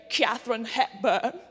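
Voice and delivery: lightly put-on grand old film actress voice; Katharine Hepburn. Shown as a demonstration. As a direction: draw out the name in an imitated screen-star voice. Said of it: "mastering that voice".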